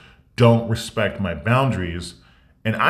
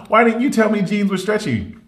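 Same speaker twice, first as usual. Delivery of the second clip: much higher, laughing through it; laughing outrage; 10 semitones higher than usual. Retold or imitated. Accusing sister about stretchy jeans, laughing high outrage. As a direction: ask it laughing and shrill with disbelief. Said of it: "I was like".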